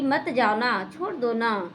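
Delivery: gently pleading in a soft voice; sweet coaxing. Retold or imitated. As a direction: coax sweetly like a loving wife. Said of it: "तो इतना प्यार से बोली".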